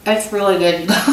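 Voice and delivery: laughing through a mouthful of chocolate; mouth full. Real, not acted. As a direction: say it round a bite of chocolate. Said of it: "I'm talking with chocolate in my mouth".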